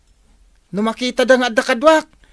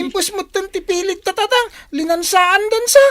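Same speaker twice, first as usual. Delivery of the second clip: alarmed shout; 7 semitones higher, 4 dB louder than usual. Acted. Bike stolen, shouting to father.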